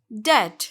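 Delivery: डेट said "det", one syllable; silent B. Shown as a demonstration. Teacher repeats the correction, B silent. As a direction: say डेट with short e and no b. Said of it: "यहाँ पर बी silent होगा".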